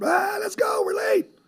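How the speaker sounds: put-on shrill, very high, loud yell. A dad acting out hurrying his kids out of the house: acting out yelling at kids. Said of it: "I'm yelling at the kids out the house".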